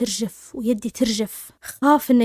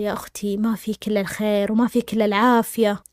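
very gentle; 3 semitones lower than usual. Retold or imitated. Second doctor reassures a distressed patient, gently. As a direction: soften your voice to comfort her. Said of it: "أسلوبه لطيف جدًا".

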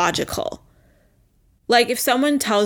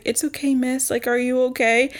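a hint of a concerned driver, pitched higher; lightly voiced taxi driver; 4 semitones higher than usual. Taxi driver to crying passenger, lightly imitated concern.

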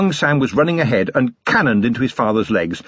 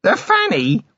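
choked laughter; 13 semitones higher than usual. Acted. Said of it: "managed to choke out".

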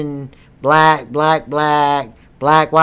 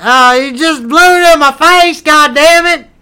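complaint; 8 semitones higher, 6 dB louder than usual. Real, not acted. Smoke blown in his face.

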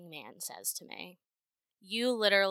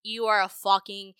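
building rant; 6 dB louder than usual. Real, not acted. Ranting insult building louder.

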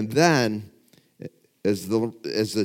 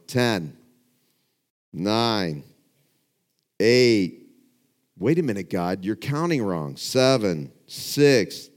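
dramatic countdown; 5 dB louder, slower than usual. Retold or imitated. Retelling a dramatic boxing countdown.

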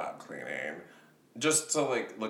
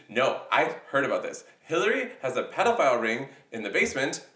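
conspiracy uncle; 5 dB louder than usual. Retold or imitated. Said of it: "everyone's Republican uncle".

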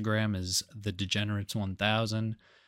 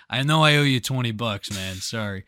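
mock apology; 6 dB louder than usual. Acted apology to a follower.

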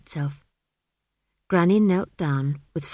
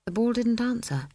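plain reading voice

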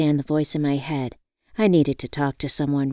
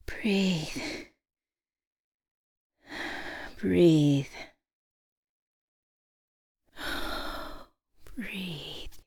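soft, whispered exhale on each word; calming herself; 3 semitones higher, 8 dB quieter, much slower than usual. A narrator's reading. Woman repeatedly tells herself to calm down, hushed. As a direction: breathe the word out, fading to a whisper. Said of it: "repeatedly telling myself to calm down".

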